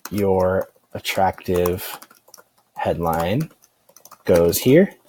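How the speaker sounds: spoken slowly word by word while typing; slowly dictating "Your attractive headline goes here" to the page; slow dictation. Shown as a demonstration. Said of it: "So I'm gonna say".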